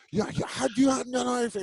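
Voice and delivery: imitating the boxing trainer. Retelling the Panamanian trainer yelling at the two actors. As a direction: fire it at him like a coach on the pads. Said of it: "He's from Panama".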